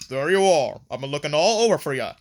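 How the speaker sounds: imitating a gruff movie character; playful take on a deep, gruff villain; deep gruff Mavis. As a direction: put on a mock gruff voice, quickening at the end. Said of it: "she has a deep, gruff voice".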